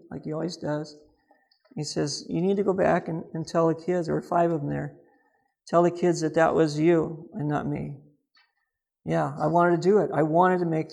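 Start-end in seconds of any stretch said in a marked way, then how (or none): 2.3-4.1 softly retold gentle counsel; still small loving voice. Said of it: "still, small, loving way". 5.7-8.0 softly retold gentle counsel; still small loving voice. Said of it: "still, small, loving way".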